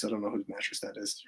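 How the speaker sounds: hushed unvoiced whisper. Real, not acted. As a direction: whisper so no one wakes. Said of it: "so I gotta be kinda quiet".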